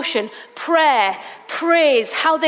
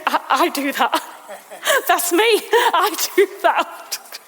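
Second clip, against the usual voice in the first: laughing recognition; 3 semitones higher than usual. Pretend. Viewer recognising self, laughing.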